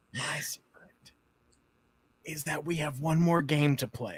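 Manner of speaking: quiet, playful joking whisper. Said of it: "You have to whisper it".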